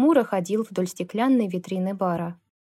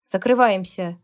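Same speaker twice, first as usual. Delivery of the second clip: curt, louder barked command; barked order; 4 dB louder than usual. Acted. Lukas throwing the grumbling bikers out, barked order. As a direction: bark it to clear the bar. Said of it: "рявкнул Лукас".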